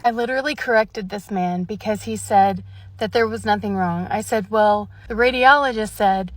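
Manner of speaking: loud exasperated ranting; annoyed rant. Real, not acted. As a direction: vent to the camera, fed up with the doctor. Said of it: "I'm sorry for ranting".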